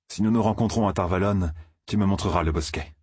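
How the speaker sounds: voix de jeune homme plus aiguë, sur la défensive; Rand, un peu plus haut, méfiant et pressé. Acted. Rand répond à Loial. (Rand repousse Loial, voix un peu plus aiguë)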